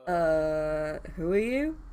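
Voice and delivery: a touch of unease and anger under the words; uneasy edge. Acted. Dazed stranger asks his rescuer who she is, uneasy edge. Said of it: "There was an uneasy edge in his voice".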